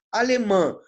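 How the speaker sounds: Alemã with the final MÃ stressed and loud; stress on last syllable. Shown as a demonstration. Teacher showing students the tonic syllable, final stress on Alemã. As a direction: lean on the nasal end of Alemã. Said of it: "Qual é a sílaba tônica de alemã?".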